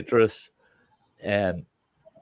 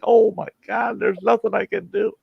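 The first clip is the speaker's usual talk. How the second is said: much higher, hammed-up helpless wail; mock panic; 14 semitones higher than usual. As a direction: play the wimp in a fake meltdown. Mocking panicked spice eaters.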